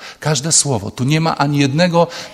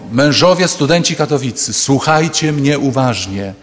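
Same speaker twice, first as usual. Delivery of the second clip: mock orator, a touch louder; proclaiming loudly. Peter addressing Katowice students, mock proclamation. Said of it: "powiedział donośnym głosem".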